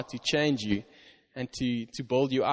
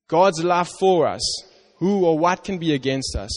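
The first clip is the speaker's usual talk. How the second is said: higher, urgent "God's love for us"; rising fervor; 4 semitones higher than usual. Shown as a demonstration. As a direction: press the point with conviction.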